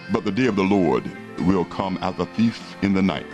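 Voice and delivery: religious zealot. Real, not acted. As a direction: warn them like a street preacher. Closing call to repent.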